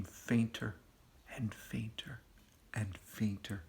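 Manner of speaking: whispered, fading away; trailing hush. A narrator's reading. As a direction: let the words vanish like the sound. Narrator fades sound away.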